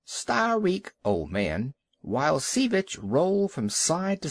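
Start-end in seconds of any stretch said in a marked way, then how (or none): 0.0-1.7 jeering yell. Acted. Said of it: "yelling and screaming".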